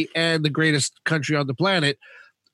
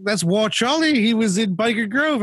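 imitating Danielle; 3 semitones higher than usual. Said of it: "Danielle goes to me".

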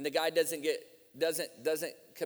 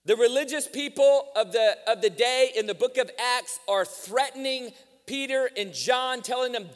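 forceful, raised sermon voice; preaching; 8 semitones higher, 8 dB louder than usual. Real, not acted. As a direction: drive each phrase home to the congregation.

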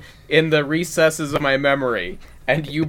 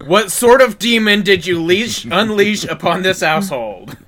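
high, loud mock-horrified call; 5 semitones higher, 5 dB louder than usual. Wife calling to her husband about demon, mock outrage. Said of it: "she just calls out to her husband".

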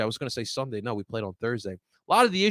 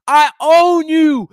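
slow, loud, high mock taunt yelled at fans; taunting shout; 11 semitones higher, 12 dB louder, much slower than usual. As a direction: yell it like a player taunting the crowd. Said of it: "and he goes".

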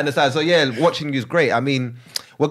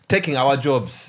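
put-on Ugandan accent; slower than usual. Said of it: "I'm gonna read it in Ugandan accent".

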